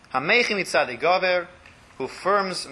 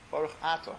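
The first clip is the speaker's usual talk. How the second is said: lower voice; 8 dB quieter than usual. Shown as a demonstration. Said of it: "in a lower voice".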